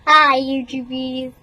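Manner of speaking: slow, projected greeting; speaking up loud. Real, not acted. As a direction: speak up so the viewers can hear. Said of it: "you gotta talk loud".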